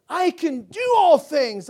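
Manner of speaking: "I can do all things" loud, high and slow, stress on "do"; proclaimed with faith. Shown as a demonstration. Pastor correcting the slogan for his church, loud and high. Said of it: "I don't just say".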